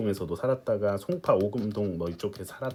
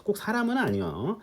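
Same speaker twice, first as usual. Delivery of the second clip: a touch of Jeolla dialect, higher-pitched; 9 semitones higher, 4 dB quieter than usual. Real, not acted. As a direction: slip into a light Jeolla lilt, pitched higher. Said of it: "전라도 사투리가 나왔네". (살짝 높은 전라도 사투리 억양으로)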